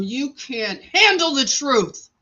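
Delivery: hammed-up movie outburst, punched on HANDLE; Jack's courtroom line. Telling him off on his way out, hammed-up movie outburst. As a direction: declaim it like a famous film line. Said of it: "who was that? Jack, Jack?".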